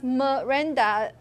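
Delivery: "Miranda" with a reduced schwa in the first syllable; schwa demo. Shown as a demonstration. Teacher shows why Miranda starts with a schwa, reduced first vowel in "Miranda". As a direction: say "Miranda" with an unstressed "muh" at the start. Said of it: "schwa in the first syllable".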